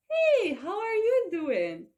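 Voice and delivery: high, loud, drawn-out happy greeting; excited greeting. Shown as a demonstration. Greeting someone not seen for a long time, excitedly. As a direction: greet a long-lost friend with a big swoop. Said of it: "when you see a person after a long time".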